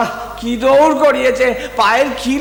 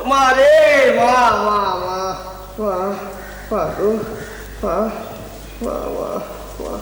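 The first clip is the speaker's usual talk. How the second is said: crying out to mother. Acted. Son calls out to mother idol.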